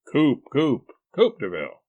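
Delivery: loud, insistent repetition; exasperated correction. A narrator's reading. Husband corrects wife's misunderstanding, exasperated. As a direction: correct with impatient emphasis.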